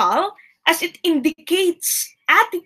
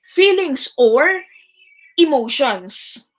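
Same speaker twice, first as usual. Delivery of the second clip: slow emphasis. Shown as a demonstration.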